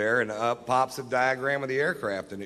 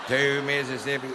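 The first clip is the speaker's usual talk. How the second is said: slow mock counting; 3 semitones higher than usual. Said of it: "He didn't really say Mississippi".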